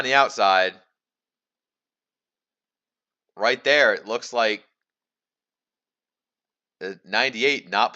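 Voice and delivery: live race play-by-play. Acted. Race commentator calling the battle for the lead, live play-by-play. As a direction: call the race as it unfolds.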